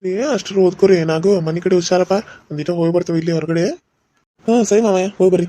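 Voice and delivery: put-on loud parting instructions to the kids; calling out. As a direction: call back to them on the way out. Calling out while leaving the house.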